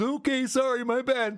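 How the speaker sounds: put-on timid voice, very slow, drawn out, high. Describing how someone usually reacts: imitating Clearwater Chad being meek. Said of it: "Clearwater Chad usually just meek and just goes".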